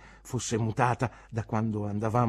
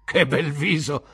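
louder, slow, admiring cry; proud exclamation; 5 semitones higher, 7 dB louder than usual. A narrator's reading. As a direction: beam with pride. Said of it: "esclamò mister Pigotty". (esclamazione fiera, lenta e forte)

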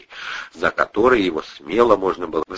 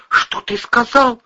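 outraged woman; 3 dB louder, slower than usual. A narrator's reading. Кристина оскорблена.

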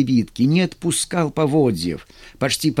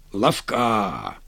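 breathy; 5 semitones lower, 4 dB quieter than usual. A narrator's reading. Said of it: "с придыханием ответил Афоня".

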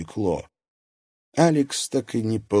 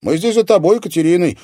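usual speaking voice

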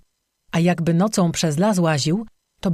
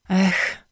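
weary sigh; 2 semitones higher than usual. Acted. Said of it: "westchnęła".

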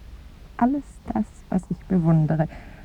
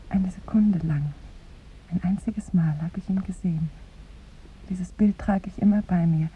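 intimate whisper; 2 semitones lower, 6 dB quieter than usual. Acted. Woman whispering to the visitor about one glimpse. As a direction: keep it barely voiced.

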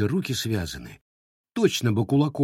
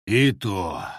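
heavy sigh. Acted. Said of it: "тяжко вздохнул Кит".

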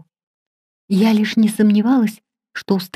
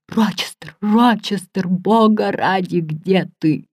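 muffled through the wall; slower than usual. A narrator's reading. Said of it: "сквозь доски и штукатурку я расслышала".

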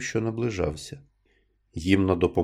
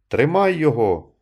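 higher, loud command to grab him; shouting; 5 semitones higher, 7 dB louder than usual. A narrator's reading. Villager urging the others to catch Nunez, shouting. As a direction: bark the order to seize him. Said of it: "крикнув хтось".

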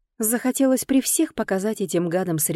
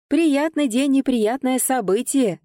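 high, loud, drawn-out cry; yelling little man; 7 semitones higher, 4 dB louder, slower than usual. A narrator's reading. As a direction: wail it out as a proclamation. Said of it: "завопил рядом со мной низенький человечек". (вопя, протяжно и высоко)

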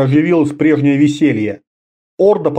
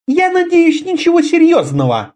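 higher, lightly feminine voice; a touch of polite concern from the woman leader; Karela's voice. A narrator's reading. Karela asking the wizard, with light concern, higher.

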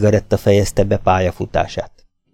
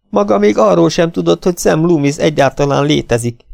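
put-on higher, sharp retort from a young woman; angry sister; 8 semitones higher, 4 dB louder than usual. A narrator's reading. Lila accusing the detective of following her, higher and sharp. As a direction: throw it back at him.

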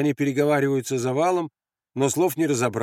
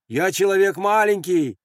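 high, raised appeal; pleading call; 7 semitones higher, 4 dB louder than usual. Acted. Andres placating the grenade thrower, pleading. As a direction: call up humbly but urgently.

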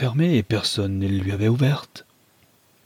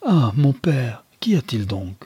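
breathless whispered plea to her father; hushed frightened whisper; whispered cry; 2 semitones higher than usual. Acted. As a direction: whisper it, anxious, no voice. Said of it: "elle s'écria".

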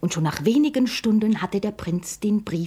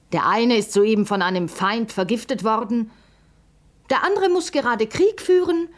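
friend voice; 4 semitones higher, 4 dB louder than usual. Acted.

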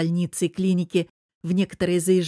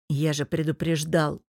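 sighing; 2 semitones lower than usual. A narrator's reading. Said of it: "вздохнув, повторил Лев".

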